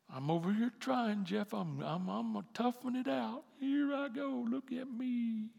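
high, slow, whiny mock voice of someone straining; mock struggling whiner. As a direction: play a self-pitying person bragging about trying. Mocking a struggling churchgoer.

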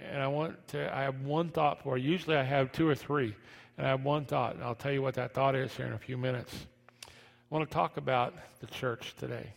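ordinary talk, nothing marked

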